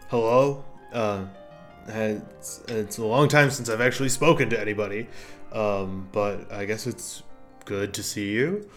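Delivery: an ancient mushroom speaking after centuries; gruff mushroom voice. Acted.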